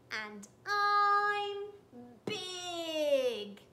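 a lightly voiced proud squid, bragging; boastful giant squid. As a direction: puff up as a proud squid showing off.

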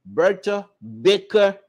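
slow, deliberate name with weight on Baker; stress on BAKER. Real, not acted. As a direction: spell out "Bertha Baker" word by word, leaning on Baker. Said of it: "put emphasis on the word Baker".

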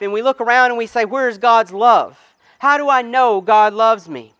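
rising sermon questions. Acted. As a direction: build the questions earnestly. Building rhetorical questions.

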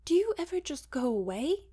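loud, high, spitting anger; spat. Acted. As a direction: spit it at him furiously. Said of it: "she spat".

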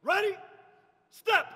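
rising ready, crisp step; drawn out parade commands. Shown as a demonstration. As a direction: call it out on the foot. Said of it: "rushing each word".

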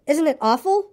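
high, dismayed little voice; frightened Piglet. Acted. Piglet clings to Christopher Robin, high and fearful. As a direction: seek comfort in a high, worried voice.

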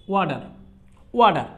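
ওয়াডার with the t flapped like Bengali ড; American flap t. Shown as a demonstration. Teacher models "water" for the class, American flapped t. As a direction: say ওয়াডার, the t a quick ড. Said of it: "এখানে কিন্তু ডর মতো কিন্তু sound হয়েছে".

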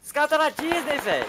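high, loud teasing put-on voice; mock the clueless enemy. Real, not acted. Mocking lost enemy.

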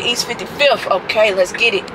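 ordinary delivery

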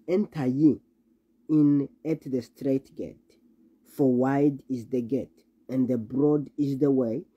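slow, solemn King James reading; scripture reading. Acted. Preacher reading the gospel to the congregation, solemn and slow. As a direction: read the verses with weight and slow pauses.

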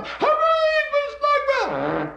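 high, slow stretched crowd cheer; high drawn-out crowd shout; crowd yell. Acted. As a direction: call it out like the whole stadium. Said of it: "you can hear these people yell".

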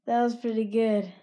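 hushed aside; whispering. Real, not acted. Whispered remark.

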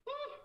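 short high "woo!" burst; loud whoop. Real, not acted. Streamer capping off her rant, loud whoop. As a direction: let out a quick whoop.

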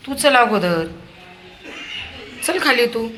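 high, loud hurrying call. Real, not acted. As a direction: get him moving out the door. Hurrying child out loudly.

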